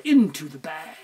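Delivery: usual speaking voice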